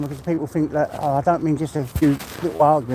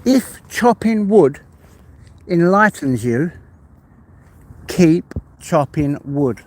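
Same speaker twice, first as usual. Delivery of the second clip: slow, louder, lightly voiced sage quoting a proverb; a hint of a solemn old sage, drawn out; mock wise proverb voice, delivered slowly; Confucius saying; 5 dB louder, slower than usual. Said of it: "Confucius say".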